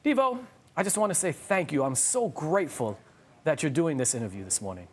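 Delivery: heartfelt thanks, slowing on the gratitude; grateful. Retold or imitated. Host quoting the actor's morning thanks, grateful. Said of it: "And he's like".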